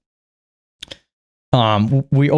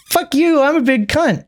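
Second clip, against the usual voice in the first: mock bratty girl; 11 semitones higher than usual. Mocking the girl in wheelchair.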